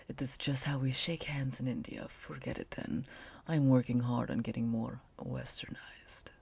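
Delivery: put-on soft whispered Indian accent; hushed sensual Rakesh voice; slow sultry voice. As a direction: speak slowly and kind of sexily. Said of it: "speak slowly and, like, kind of sexily".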